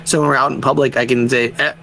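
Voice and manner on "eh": short "eh" signal; quick wordless warning to a child; weird little noise. Shown as a demonstration. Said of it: "weird little noises".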